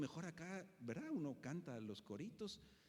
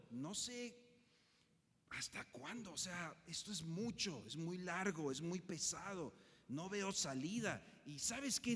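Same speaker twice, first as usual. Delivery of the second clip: anguished prayer; 2 semitones higher than usual. Acted. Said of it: "le está expresando a Dios, pues realmente angustia".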